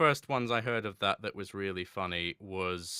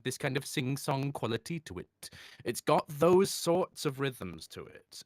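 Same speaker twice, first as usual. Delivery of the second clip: hyper-articulated Welsh lilt, pitched up; sing-song Welsh accent; 5 semitones higher than usual. Shown as a demonstration. Showing a listener what Welsh sounds like, sing-song Welsh accent. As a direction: lean into slow, bouncing Welsh rhythms. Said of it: "Welsh has got this kind of".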